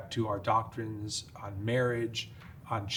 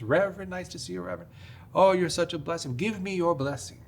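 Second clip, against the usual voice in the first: lightly put-on Southern accent, high and sweet; 7 semitones higher than usual. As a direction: imitate a friendly Southern bus driver, badly. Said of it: "with a beautiful Southern accent".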